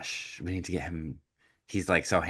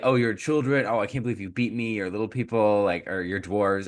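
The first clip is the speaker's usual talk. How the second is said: put-on, mocking voice with laughter; 3 semitones higher than usual. Recapping a rude character's words to the dwarves, Prince Alcott laughing mockingly. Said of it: "and he's laughing at them".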